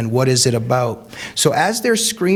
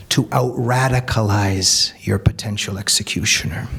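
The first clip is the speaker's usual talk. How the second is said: hushed emphasis; 4 semitones lower than usual. Real, not acted. Stating key theme.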